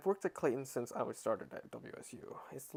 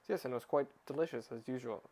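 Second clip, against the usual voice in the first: stuffy formal voice. Acted. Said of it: "Nobody talks like that".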